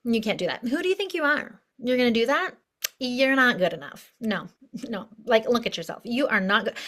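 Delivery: dismissive, doubting put-down; scolding inner critic. Acted. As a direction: play a mildly scornful inner critic. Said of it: "So mental body's like".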